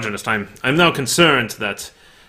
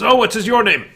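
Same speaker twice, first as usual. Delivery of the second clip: high templar voice; 12 semitones higher, 5 dB louder, faster than usual. Acted. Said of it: "He says".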